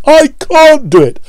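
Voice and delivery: high, strained straining puffs; puffing Gordon. A narrator's reading. Gordon straining up the hill, puffing high and strained. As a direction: gasp it out in rhythm. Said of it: "they puffed together".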